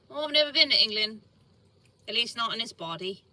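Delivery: quick, lightly put-on English accent. Shown as a demonstration. Speaker shows off accents to viewers, English accent. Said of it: "Can break out into an English accent".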